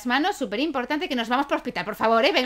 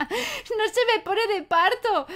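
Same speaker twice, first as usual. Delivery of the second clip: high slow sim voice; 10 semitones higher, slower than usual. Acted. Voicing the sim's reply.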